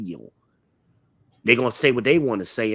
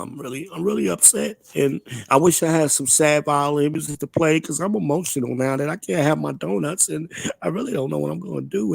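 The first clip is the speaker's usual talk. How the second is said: mock sad; 4 semitones higher than usual. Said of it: "I'm sad now".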